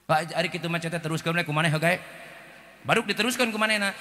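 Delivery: usual speaking voice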